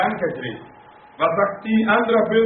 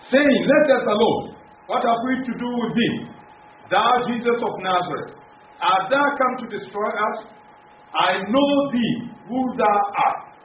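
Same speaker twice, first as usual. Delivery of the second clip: raised, emphatic reading of the demons' plea; scripture reading; 4 semitones higher than usual. Acted. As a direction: proclaim the verse to the congregation. Preacher reads demons' words in English. (feierliche Bibellesung, laut und betont)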